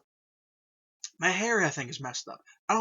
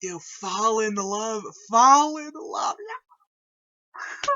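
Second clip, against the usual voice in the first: awed excitement; 5 dB louder, much slower than usual. Real, not acted. Fan gushing over the game's best scene, slow and rising. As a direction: savor each word, then burst out. Fan naming favorite game moment.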